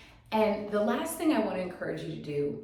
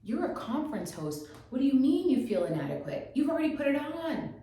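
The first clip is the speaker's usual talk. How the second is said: higher, lively mock pep talk from her future self; excited pep talk; 5 semitones higher than usual. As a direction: cheer yourself on like your future self. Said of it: "future her was like".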